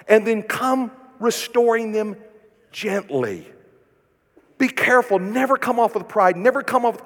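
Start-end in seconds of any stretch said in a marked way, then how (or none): 2.7-3.5 low, soft gently; hushed gently. Shown as a demonstration. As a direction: let gently fall softly. Modelling the gentle approach.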